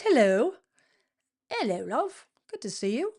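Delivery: badly put-on English accent; cheery hello in a mock English accent; terrible English accent. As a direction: greet someone in a bad English accent. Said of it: "I got an English accent".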